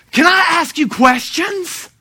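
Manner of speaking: loud, high, stretched-out mock eagerness; eager fascination. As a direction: act out over-keen curiosity, drawing it out. Retells his eager reaction to Satanist.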